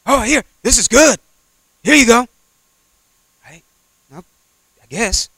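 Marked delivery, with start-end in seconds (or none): 0.0-2.3 high, sweet-talking tempter; tempting devil. Retold or imitated. Devil luring the believer, high and coaxing. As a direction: sell it like a smooth devil.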